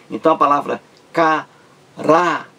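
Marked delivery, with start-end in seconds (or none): 1.1-2.5 "caráter" partido em ca, rá, ter, com pausas; separação silábica. Shown as a demonstration. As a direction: diga "caráter" sílaba por sílaba. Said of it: "três sílabas". ("caráter" escandido devagar)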